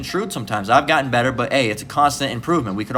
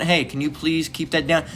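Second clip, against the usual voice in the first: softer, polite ask to turn it down; polite request; 3 semitones higher, 3 dB quieter than usual. Retold or imitated. Neighbor politely asking the man on his porch to quiet down. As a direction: ask nicely, a little quiet. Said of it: "it probably wasn't".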